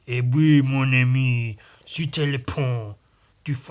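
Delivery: a light mock Cajun French accent. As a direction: toss off a bit of Cajun French. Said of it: "his weird Cajun accent".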